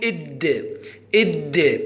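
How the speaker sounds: إد as the bare sound of dal, low; letter sound. Shown as a demonstration. Teacher sounding out the letter dal for first graders, إد said in isolation. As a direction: sound out إد on its own, twice. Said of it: "نقول".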